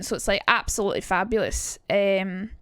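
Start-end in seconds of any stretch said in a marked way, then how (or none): 0.5-1.8 a hint of far-back posh London; lightly done far-back received pronunciation. Shown as a demonstration. Showing a more London way, far-back RP accent. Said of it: "bring it far back, which is more London".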